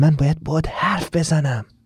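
soft, hushed, quiet, under the breath. Reading a story aloud, a character answering a quiet phone call: speaking quietly. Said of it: "منم با صدای آروم گفتم".

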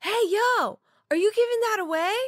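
acted-out very high yell. Retelling what a person across the street shouted: imitating someone yelling. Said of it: "a human across the street yells".

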